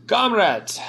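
a mock Russian accent slipping in by mistake; wrong Russian accent. GM slips into the wrong Russian voice for Moritor. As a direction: greet the party in a hammed-up Russian accent. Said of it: "Shit, that's not his voice".

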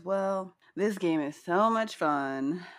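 slow, drawn-out mock enthusiasm; sarcastic. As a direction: imitate her sarcasm, stretching the words. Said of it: "really sarcastically with an eye roll".

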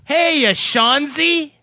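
high, slow, drawn-out greeting; mock fan greeting. Host reading a fan letter to his co-host, high and drawn out. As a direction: stretch each word like a gushing fan.

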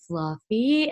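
imitated creepy deadpan, questioning lift. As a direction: say it like an eerie sleepwalker, no shouting. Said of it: "in the creepiest way".

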